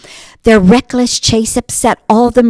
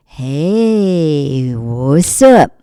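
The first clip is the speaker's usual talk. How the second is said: drummer; 5 semitones lower, much slower than usual. Acted. Drummer's voice, low.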